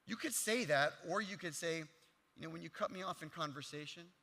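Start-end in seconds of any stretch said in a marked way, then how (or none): 2.4-4.1 disarming. Shown as a demonstration. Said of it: "One way is very disarming".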